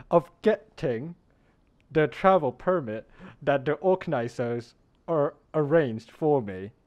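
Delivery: put-on deliberate, emphatic British accent; British accent, stretching the stressed words. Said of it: "how was my British accent".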